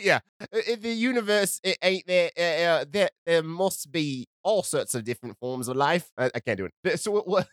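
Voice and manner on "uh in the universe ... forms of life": faltering mock-Cockney reading; amateur Cockney, halting; attempted Cockney accent. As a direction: do a shaky-footed British accent, losing it. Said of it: "Of Cockney?".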